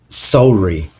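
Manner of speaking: sorry in a Canadian accent; Canadian pronunciation. Shown as a demonstration. Teacher giving an example of differently pronounced sounds, Canadian "sorry". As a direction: say "sorry" with a rounded "oh" vowel. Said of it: "certain sounds that are pronounced differently".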